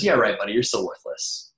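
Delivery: mocking inner voice. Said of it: "that laughs at you and says".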